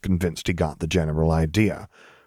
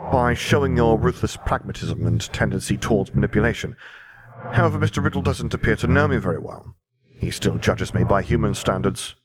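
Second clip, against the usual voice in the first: grim reaper voice; 3 semitones higher than usual. Acted. Death replies.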